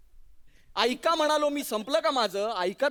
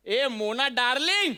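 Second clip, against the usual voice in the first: calling out; slower than usual. Retold or imitated. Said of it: "अशी हाक मारली".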